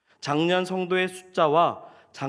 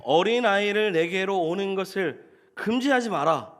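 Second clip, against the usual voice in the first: firm, higher-pitched reproving command; imitated stern scolding, pitched up; acted-out rebuke; 4 semitones higher than usual. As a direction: rebuke them as an authority forbidding it. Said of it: "이렇게 책망을 하시는 거예요".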